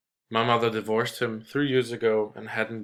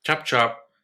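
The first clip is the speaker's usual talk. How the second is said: a touch louder, brisk command; mild shout; 3 semitones higher, 5 dB louder than usual. Acted. Father hurrying the waiter along, mild mock shout. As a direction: snap the words out to hurry him. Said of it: "he shouted".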